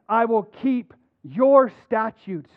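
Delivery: slow, with your leaned on; I will keep your statutes, your weighted; stress on your. Shown as a demonstration. Reading to the congregation, stressing your slowly. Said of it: "I'm gonna emphasize it as I read".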